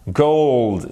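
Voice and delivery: "Gold" with a gliding oh vowel; diphthong in gold. Shown as a demonstration. Teacher modelling English for learners, diphthong in "Gold". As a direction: glide from o to oo inside "Gold". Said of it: "savoir faire les diphtongues".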